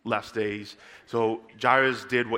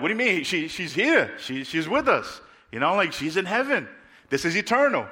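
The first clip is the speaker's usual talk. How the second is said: higher, mildly incredulous objection; mock protest; 5 semitones higher than usual. Heavenly friends objecting to the angel, in mock protest. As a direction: object as if it makes no sense.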